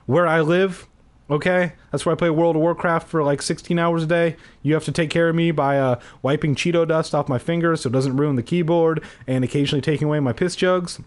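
quick, high, mocking rant; mock gamer Keith. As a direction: rattle it off as a basement gamer.

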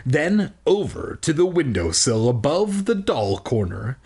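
measured read-aloud storytelling; story narration. Acted. Reading a children's book aloud to listeners, storytelling. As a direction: read it out slowly and clearly like a storybook.

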